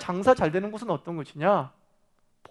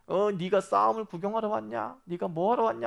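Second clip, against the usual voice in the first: mock-angry older brother's challenge; mildly angry Eliab; 3 semitones higher than usual. Eliab confronting young David at the battlefield, mildly angry. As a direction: scold him with a touch of acted anger. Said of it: "엘리압이 막 화를 내면서".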